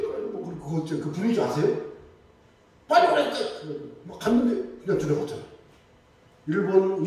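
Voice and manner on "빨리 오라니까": calling out. Retold or imitated. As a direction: call her over from up ahead, impatient. Elder calling her to hurry. (재촉하며 크게 부르는 목소리)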